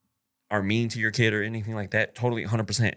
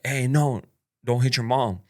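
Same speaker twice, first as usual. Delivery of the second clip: put-on a firm, louder "Hey, no" to stop a kid; 3 semitones higher, 5 dB louder than usual. Stopping girlfriend's kid from hitting his mom, said loud. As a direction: raise the voice just enough to stop him, not screaming. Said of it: "I just said it loud".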